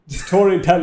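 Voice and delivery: Indian accent with a strong L in "Storytell"; exaggerated Indian accent. Shown as a demonstration. Guest mocks his own slip, exaggerated Indian accent. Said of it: "the L was real strong".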